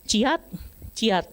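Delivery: short, high imitated fighting yelps; mock kung fu strike cries; martial-arts cry. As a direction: act out two sword blows. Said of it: "saya cuma begini".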